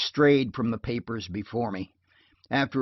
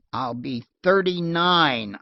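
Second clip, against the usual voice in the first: dignified; 4 semitones higher, 4 dB louder, slower than usual. Acted. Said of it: "I said with dignity".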